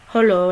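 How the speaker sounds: Hello said as "hullo"; first vowel of Hello like the u in "hull"; hullo pronunciation. Retold or imitated. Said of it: "like H U L L O".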